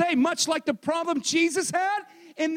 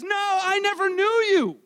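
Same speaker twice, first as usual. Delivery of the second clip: stern rebuff; 6 semitones higher, 3 dB louder than usual. Acted. Acts Jesus' rebuff.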